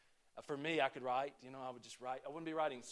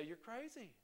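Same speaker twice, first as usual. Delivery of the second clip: mock listener; 5 semitones higher, 11 dB quieter than usual. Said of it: "would look at me and would say".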